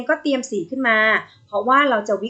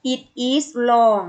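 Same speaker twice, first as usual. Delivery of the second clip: very slow, word-by-word reading; slow model reading; much slower than usual. Shown as a demonstration. Teacher modelling It is long slowly for pupils. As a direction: read it slowly for the class. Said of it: "Say after me".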